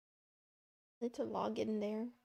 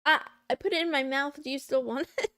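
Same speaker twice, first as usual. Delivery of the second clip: teasing; 3 semitones higher, 7 dB louder, faster than usual. Pretend. Teasing viewer about the chip.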